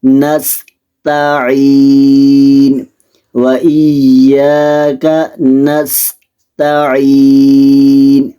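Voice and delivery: in نستعین das Sin klar und das Ta dünn sprechen; نستعین langsam mit feinem Ta rezitieren; dünnes Ta. Shown as a demonstration. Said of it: "تا کو بریک پڑھنا ہے".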